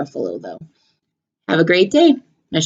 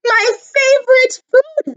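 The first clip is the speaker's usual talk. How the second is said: Gruffalo voice. Acted.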